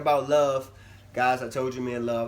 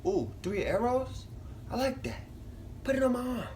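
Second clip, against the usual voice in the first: much higher, light voice replaying her own snap decision; squeaky mock-eager; retold delight; 11 semitones higher, 4 dB quieter than usual. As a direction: mimic her past self's excited pick. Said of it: "I said".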